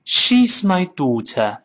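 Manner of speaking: crisp, slow British English; British accent, slow. Shown as a demonstration. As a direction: say it the British way, mouth wide. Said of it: "英国人说".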